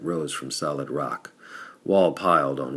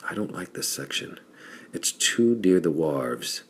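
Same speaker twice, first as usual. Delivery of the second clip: nervous whisper; 2 semitones higher than usual. Acted. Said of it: "glanced about him nervously".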